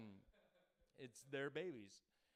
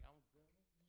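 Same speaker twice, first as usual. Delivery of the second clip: creepy mock threat; 15 dB quieter than usual. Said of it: "they're like".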